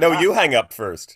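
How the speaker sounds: giggling, slow and lovey-dovey; giggly late night call. Pretend. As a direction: coo it through a laugh like a smitten caller. Mimicking a couple's phone goodbye.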